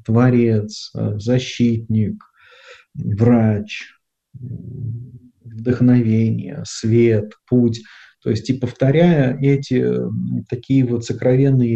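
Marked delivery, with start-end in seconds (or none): 0.0-7.8 slow, slightly lowered, meditative list; unhurried prayerful words, one by one; calm contemplative naming. Shown as a demonstration. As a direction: say each name calmly, with space after it. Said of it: "я сажусь тоже спокойно".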